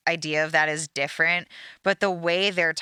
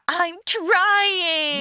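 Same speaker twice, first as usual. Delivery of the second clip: higher, louder angry whine; angry whining; 11 semitones higher, 4 dB louder than usual. Retold or imitated. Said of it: "angry, whining voice".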